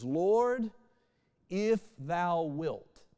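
slow, drawn-out reverent plea; formal scripture plea. Retold or imitated. Leper begs Jesus in old Bible words, drawn-out plea. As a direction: raise and stretch LORD, then slow right down. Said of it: "We don't talk like that".

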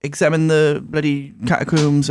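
mock posh English accent. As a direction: imitate her in a halting posh accent. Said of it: "too posh".

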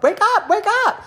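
shouting wake up. Pretend. Vlogger yelling at hidden extroverts to wake up, laughing. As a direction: yell it like an alarm, laughing.

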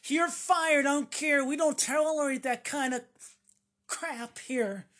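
indignant boss. Acted. Outraged boss refuses the worker's apology, loud and firm. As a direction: slam the door on him, no mercy. Skit: boss keeps firing.

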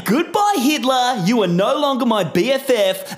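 lightly hammed-up hype announcer; big swaggering podcast intro. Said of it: "forgets how to do the voice".

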